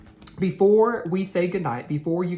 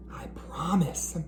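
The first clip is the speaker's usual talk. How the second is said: soft whisper; 2 semitones higher, 6 dB quieter than usual. Acted. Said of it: "Larry whispered".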